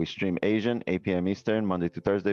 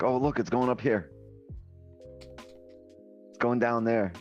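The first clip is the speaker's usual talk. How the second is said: naive newbie voice; 7 semitones higher, much slower than usual. Retold or imitated. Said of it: "I'm like".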